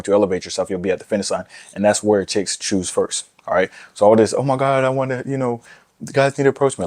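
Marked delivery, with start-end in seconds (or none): 4.3-6.9 high, breathy mocking imitation of a woman; a lightly voiced whiny girl, mocking; mock girly voice. Mocking women who want guys to approach, in a high girly voice.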